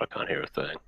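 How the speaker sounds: garbled, breaking-up call audio; temporarily deafened. Real, not acted. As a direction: voice dropping out on a bad line. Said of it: "He's got the head noise".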